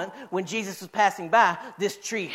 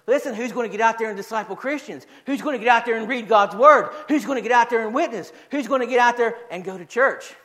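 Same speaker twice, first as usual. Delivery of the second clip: insistent pulpit challenge; rhythmic, emphatic exhortation; rallying preaching; 3 semitones higher, 3 dB louder than usual. Real, not acted. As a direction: drive each repeated question at the congregation. Rallies congregation with repeated questions.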